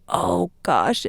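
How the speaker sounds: ordinary talk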